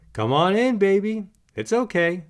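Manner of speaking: high, gently coaxing voice to a nervous puppy; reassuring. A narrator's reading. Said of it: "Bob reassures her".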